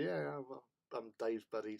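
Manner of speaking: lightly put-on American accent. Posing as a buddy to fool the kids, light American accent. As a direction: casually pass for an American. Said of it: "put on this American accent".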